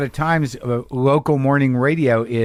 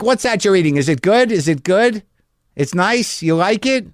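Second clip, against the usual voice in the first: put-on old Jewish lady; 6 semitones higher than usual. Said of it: "an old Jewish lady thing to do".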